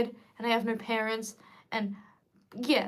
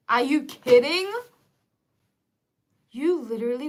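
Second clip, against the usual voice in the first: indignant; 6 dB louder than usual. Real, not acted. Outraged rant at parents.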